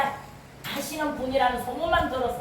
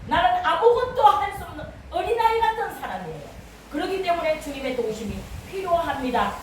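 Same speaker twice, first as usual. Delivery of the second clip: higher-pitched pleading, easing down at the end; retold pleading prayer; 4 semitones higher than usual. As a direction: plead as if retelling a humble prayer. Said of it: "그렇게 기도를 하니까". (간절한 기도를 흉내 내는 말투)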